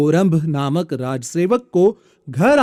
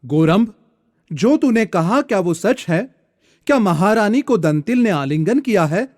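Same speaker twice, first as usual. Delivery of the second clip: alarmed king; 4 semitones higher than usual. Acted. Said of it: "राजा घबराकर उठ गया और उससे बोला".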